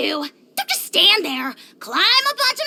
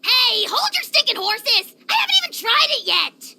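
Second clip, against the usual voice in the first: indignant protest; 7 semitones higher than usual. Acted. Dragon lord stopping the food return, indignant. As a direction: stop her before she returns the dish.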